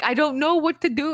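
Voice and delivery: lightly acted helpless protest; retold upset character. Retelling a movie scene at the plant shop, mock helpless. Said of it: "And he's like".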